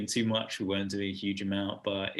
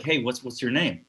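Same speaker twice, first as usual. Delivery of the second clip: higher, louder imitated American; American accent; 5 semitones higher, 5 dB louder than usual. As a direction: ask like an American striking up a chat. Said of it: "I'm only gonna do this a couple of times".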